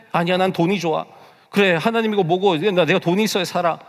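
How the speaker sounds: defiant self-talk. Acted. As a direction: brush God aside in acted self-talk. Acts out choosing money over God. (고집부리는 혼잣말 흉내)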